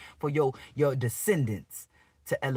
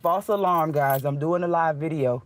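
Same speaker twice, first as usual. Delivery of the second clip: louder call to the street; 5 dB louder than usual. Real, not acted. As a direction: call out so the police hear. Announcing loudly for police.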